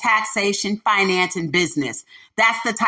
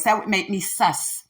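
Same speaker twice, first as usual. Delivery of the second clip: ironic zoomer slang, a bit softer; Gen Z voice; 3 dB quieter than usual. Shown as a demonstration. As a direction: toss off the slang like a teen. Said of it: "in my Gen Z voice".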